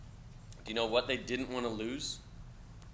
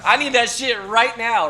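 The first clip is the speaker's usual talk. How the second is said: laughing out loud through the words, a bit slower and louder; 11 semitones higher, 13 dB louder, slower than usual. Real, not acted. Teacher laughing at his own joke to the class. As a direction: crack up while you say it. Teacher jokes he'd want cash now.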